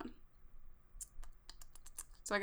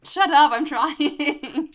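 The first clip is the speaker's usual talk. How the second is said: loud, high, drawn-out protest; exasperated high yell at friends; mock-indignant shout; 9 semitones higher, 13 dB louder, much slower than usual. Real, not acted. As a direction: shout back at teasing, pitch way up. Teased about accent, snaps back.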